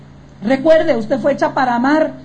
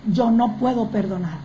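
hurt refusal; 3 semitones lower than usual. Acted. Voicing a hurt unforgiving woman.

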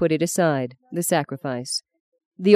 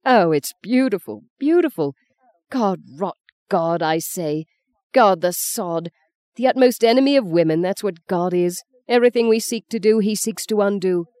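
higher, rising bitter scorn; bitter outburst; 3 semitones higher than usual. Acted. Mother raging at God before her son. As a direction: spit it out with mounting contempt.

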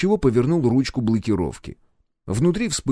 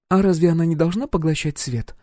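put-on lightly raised young woman's question; puzzled girl, lightly voiced; curious girl; 8 semitones higher than usual. Roxy asks the engineer, a hint of curiosity. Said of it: "спросила Рокси".

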